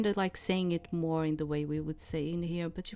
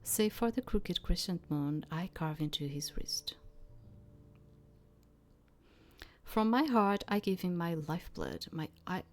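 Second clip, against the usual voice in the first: measured literary read-aloud; narrating a story line by line; story narration. A narrator's reading. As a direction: read it as a first-person tale, with pauses.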